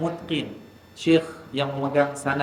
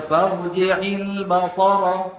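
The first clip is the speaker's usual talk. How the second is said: slow farji'il basara with the stress on ba; retold wrong stress; 6 semitones higher, 4 dB louder, much slower than usual. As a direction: imitate the reader pressing on ba. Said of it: "Uh, jangan baca".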